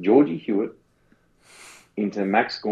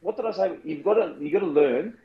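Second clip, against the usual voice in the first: Shaq voice; 4 semitones higher than usual. Pretend. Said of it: "doing your Shaq voice".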